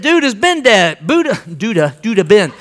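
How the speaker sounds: loose, clipped-down joke version of the line, ending in a laugh; mock slangy street talk. Joking to the congregation with a mock slangy voice. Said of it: "I didn't say it that way".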